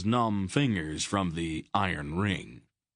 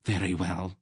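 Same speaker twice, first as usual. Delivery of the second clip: icy. Acted. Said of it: "she said in an icy voice".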